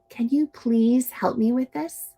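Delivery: friendly rising "Can you please help me with this?"; gentle request; nice polite ask. Shown as a demonstration. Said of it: "A nice friend will say".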